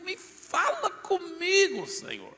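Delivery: high, slow, drawn-out plea to God; desperate prayer, stretched high; pleading cry. Retold or imitated. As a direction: cry it out slowly, high and longing.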